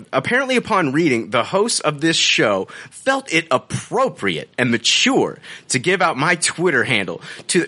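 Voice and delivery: measured, mannered read-out of a review; affected reading tone. Acted. Host reads the reviewer's update to co-hosts, affected reading tone. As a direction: read it out with a put-on inflection. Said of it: "with this tone and this inflection".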